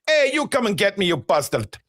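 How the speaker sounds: a hint of a Russian accent taunting; lightly put-on Russian voice, teasing; mock Russian accent. Voicing Tonali taunting defenders, light mock Russian accent. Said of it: "I don't know why I went Russian there".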